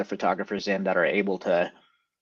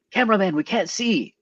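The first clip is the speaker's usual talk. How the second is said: high-pitched mock heckler's yell; pitched-up imitation of a yelling spectator; imitated audience yell; 10 semitones higher than usual. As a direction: call out like a complaining fan in the crowd. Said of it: "somebody in the audience yelling".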